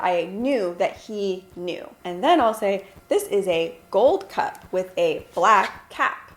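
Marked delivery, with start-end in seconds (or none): 3.1-6.3 put-on slow, deliberate words for a child; slow toddler talk. Shown as a demonstration. Mom describing a cup slowly to her toddler. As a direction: spell it out slowly for a little one. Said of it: "I do talk like that".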